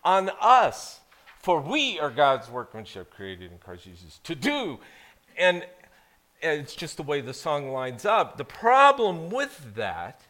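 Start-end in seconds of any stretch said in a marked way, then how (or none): 1.4-4.8 "we" pushed hard, tail falls away low; emphasis on us. Shown as a demonstration. Pastor demonstrating the song's wrong stress, "we" punched. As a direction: lean on "we" like the song does. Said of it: "syncopation of that places the emphasis on us".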